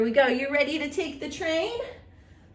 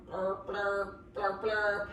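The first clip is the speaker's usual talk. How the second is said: horn blurp; 4 semitones lower, slower than usual. Shown as a demonstration. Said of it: "Imagine like you're playing horn".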